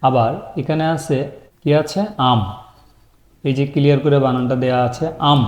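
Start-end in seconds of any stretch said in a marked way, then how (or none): 5.3-5.4 আম as one syllable closing on m; teacher sounding out আম; pronunciation demo. Shown as a demonstration. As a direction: say আম as a model word. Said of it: "উচ্চারণ করতে হবে".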